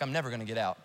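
low, soft hopeless mutter; despondent. Acted. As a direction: voice someone sunk in the moment. Voices someone stuck in despair.

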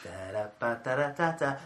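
slow droning zombie groan; zombie noise. Acted. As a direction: moan it out like a zombie. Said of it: "Zombie noise".

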